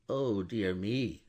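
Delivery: slow, drawn-out mild dismay. Acted. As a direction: let the dismay sag out slowly. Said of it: "cried Mister Lorry".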